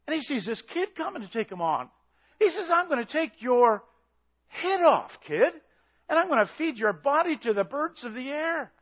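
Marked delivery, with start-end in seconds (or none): 2.7-8.7 giant's taunt. Acted.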